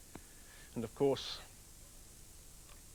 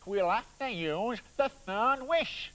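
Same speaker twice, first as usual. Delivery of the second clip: glum repeat; 7 semitones higher, 6 dB louder, much slower than usual. Acted. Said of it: "said the man".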